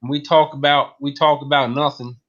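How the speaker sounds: put-on lightly done country-yokel accent; put-on hick accent. Guest insisting it's his normal voice, light hick accent. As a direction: claim it as your own hick accent. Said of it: "that's not my actual accent".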